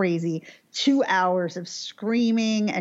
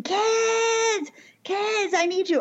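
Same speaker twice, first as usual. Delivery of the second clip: put-on screaming for the kids; 13 semitones higher, much slower than usual. Husband shouting for the kids upstairs, high desperate yell. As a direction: shout up the stairs like a banshee. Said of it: "he's screaming".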